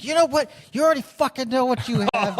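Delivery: laughing imitation of an exasperated mom; fed-up mom. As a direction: mom snapping at the kid over rollerblades, mock exasperated. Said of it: "my mom eventually just lost her shit".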